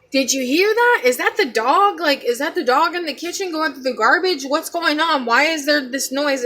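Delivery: mild mock yell, question after question; retold yelling. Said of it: "my mom yells".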